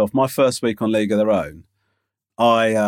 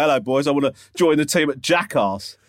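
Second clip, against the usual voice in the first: posh British. Pretend. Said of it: "walked into the fucking meeting and go".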